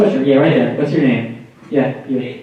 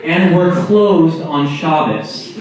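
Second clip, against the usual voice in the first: slow, lightly voiced restaurant host; measured mock welcome spiel; mock server greeting; 5 semitones higher, slower than usual.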